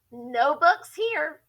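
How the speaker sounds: slow, curt gorilla snap; snapping. Acted. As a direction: bite the words off, slowly and sharply. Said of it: "snapped the gorilla".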